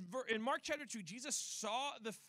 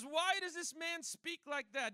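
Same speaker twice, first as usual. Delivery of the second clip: acted indignation, high, loud and slow; lightly played accusing Pharisee; indignant Pharisee; 7 semitones higher, 6 dB louder than usual. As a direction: challenge it in a raised, scandalized voice. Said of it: "this is the Pharisee saying".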